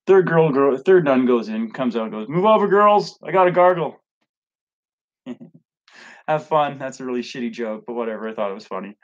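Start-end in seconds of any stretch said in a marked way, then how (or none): 2.3-4.0 high, loud, brassy punchline nun voice; cheeky nun. Acted. Telling a dirty joke to viewers, a cheeky nun voice, higher and louder. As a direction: belt it out like a nun who can't wait.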